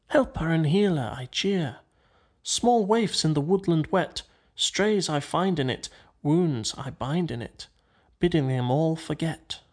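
measured, lilting verse reading; verse recitation. A narrator's reading. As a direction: recite it in even, separated phrases. Rat recites the overheard song words.

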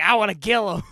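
very loud, high mock war cry; imitated threatening yell. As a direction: bellow it like a kid ready to fight. Retelling Beaver's threat while slamming rocks.

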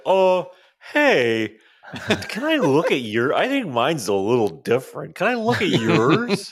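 high, innocent fake-confused voice; playing dumb. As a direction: act clueless and sweet. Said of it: "Be like".

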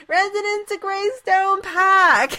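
put-on high, loud, slow Boston accent. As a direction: drawl like a PA announcer from Boston. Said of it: "my Boston accent".

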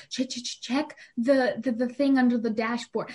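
imitating a stammering, flustered mom; incoherent. Mom telling child to check under the dashboard, incoherent. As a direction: stutter the first word, stumble onward. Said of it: "she can't even talk".

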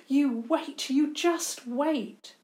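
teasing, sing-song warning; annoying taunt. Acted. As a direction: needle them with it. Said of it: "a bit annoyingly".

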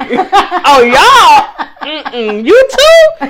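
high laughing mock outrage; laughing, pretending to be scandalized; mock disbelief laughing. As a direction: tease them through laughter, rising. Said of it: "I'm like".

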